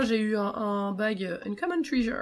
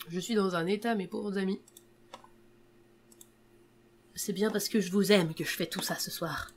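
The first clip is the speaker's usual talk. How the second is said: sultry narrator. Acted. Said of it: "avec ma voix suave".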